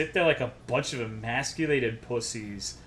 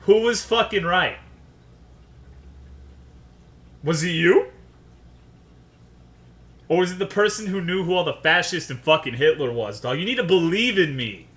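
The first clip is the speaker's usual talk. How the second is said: loud, raised-pitch indignant rant; worked-up anger; 5 semitones higher, 5 dB louder than usual. Real, not acted. Streamer demanding an apology from players who doubted him, loud indignant anger. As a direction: demand vindication, pushing louder and higher. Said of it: "I get angry".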